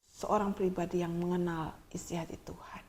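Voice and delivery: preacher dropping to an intimate whisper; whispered line in the sermon. Real, not acted. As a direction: breathe it as a secret.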